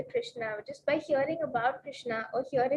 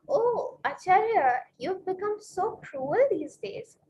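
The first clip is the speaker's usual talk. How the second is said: higher, drawn-out mild reproach; retold reproach; 4 semitones higher, 3 dB louder, slower than usual. Wife tells husband he has become cruel, mildly reproachful. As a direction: act out a wife lightly scolding, pitch lifted.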